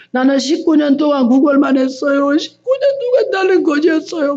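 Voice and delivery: rising into a tearful wail, voice climbing high; imitating a deaconess breaking down in tears; retold weeping. Deaconess confessing to the preacher, tearful wail. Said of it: "막 울어 막".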